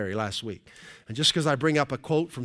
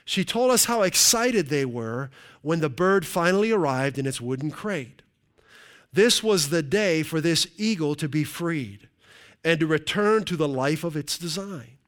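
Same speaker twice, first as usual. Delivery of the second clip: animated, raised storytelling read; story read aloud; 2 semitones higher than usual. Acted. Preacher reads an eagle illustration to the congregation, animated storytelling. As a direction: read it out dramatically, punching key phrases.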